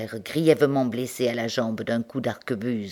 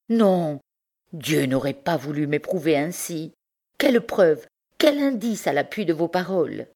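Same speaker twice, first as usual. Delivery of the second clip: a higher, defiant woman's voice; lightly voiced wife; 4 semitones higher than usual. Bertrande defies Pierre, demanding proof, in a higher voice. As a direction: challenge him for proof.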